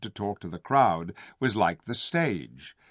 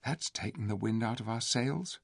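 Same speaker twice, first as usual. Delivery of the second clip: whispered; 7 dB quieter than usual. A narrator's reading. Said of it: "whispered Eustace".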